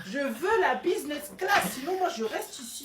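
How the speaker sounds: bratty demand. Acted. Child demands business class.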